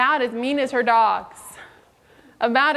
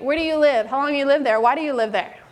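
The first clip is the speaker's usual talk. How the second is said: rapid-fire interrogation questions; mock interrogator firing questions; interrogating. Shown as a demonstration. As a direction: grill them like a cop. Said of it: "Don't interrogate".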